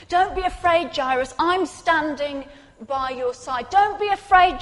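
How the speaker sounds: rising fervent reassurance; building reassurance. Acted. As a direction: swell the promise toward a peak. Preacher building repeated reassurance.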